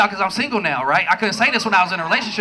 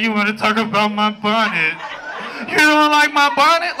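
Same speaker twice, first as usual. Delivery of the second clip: mock offended girlfriend; 3 semitones lower than usual.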